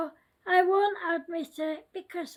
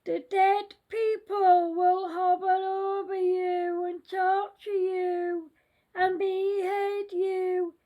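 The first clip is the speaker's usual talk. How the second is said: scary voice. Acted. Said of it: "said the scary voice".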